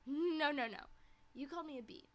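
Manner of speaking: loud emphatic no's; loud protest. Real, not acted. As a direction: shout down the accusation. Protesting friend's claim loudly.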